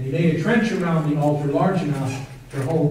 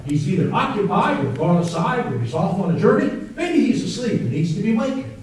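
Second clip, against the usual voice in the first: mocking; 2 semitones higher than usual. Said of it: "Elijah mocked them".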